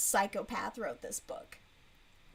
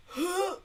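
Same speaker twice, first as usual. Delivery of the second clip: gasp; 7 semitones higher than usual. Real, not acted. Recoiling after mocking the book.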